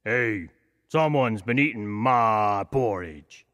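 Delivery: slow, lightly voiced papa bear; a big bear, puzzled, taking his time; gentle hint of a father bear. A narrator's reading. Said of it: "he said".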